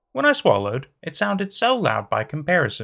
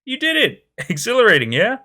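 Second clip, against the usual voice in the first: thrilled; 9 semitones higher, 6 dB louder than usual. Acted. Bruno thrilled after catching her.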